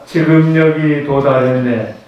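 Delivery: slow, measured line for the group to repeat; leading a recitation. Shown as a demonstration. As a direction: lead the group line by line, slowly. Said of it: "요거 한번 같이 해볼까요".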